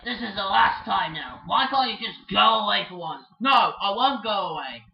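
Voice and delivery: loud, heated quarrel; angry shouting. Acted. Birds arguing, loud angry shouts. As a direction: shout it like you're fed up. Toys fighting.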